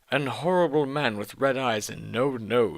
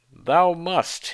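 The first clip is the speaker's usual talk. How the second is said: louder, higher hammed-up command; villain's yell; 7 semitones higher, 5 dB louder than usual. Voldemort yelling his demand, hammy. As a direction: bark the order at her. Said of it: "he yelled".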